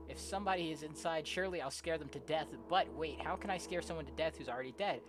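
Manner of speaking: animated story narration. Acted. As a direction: act out the narrator's growing dilemma. Reads game story aloud.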